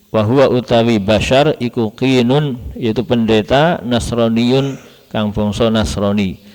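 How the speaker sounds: sing-song utawi iku translation, slowed on the Arabic; kitab recitation. Real, not acted. Teacher glosses the Arabic text for students in traditional recitation. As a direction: chant the gloss word by word.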